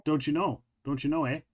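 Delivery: a Minnesotan "Don't you know, eh?"; Minnesotan accent. Shown as a demonstration. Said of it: "say it again".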